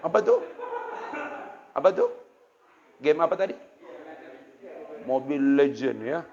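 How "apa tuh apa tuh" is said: stern question. Retold or imitated. Father questions son about game.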